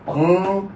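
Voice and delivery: "पंक" split, nasal ङ held; syllable-split demonstration. Shown as a demonstration. Teacher showing learners the nasal sound, "पंक" drawn out. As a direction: stretch the nasal in "पंक", then release the क. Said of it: "वर्ण के अनुसार ध्वनियां बनती है".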